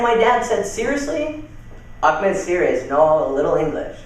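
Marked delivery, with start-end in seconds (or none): 0.7-1.4 high-pitched disbelieving question; imitating an incredulous reaction. Retold father's incredulous question. 2.0-4.0 lightly imitated foreign-accented English; mock foreign accent, broken English. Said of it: "as I do the accent".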